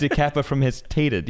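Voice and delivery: laughing. Real, not acted. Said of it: "laugh heard".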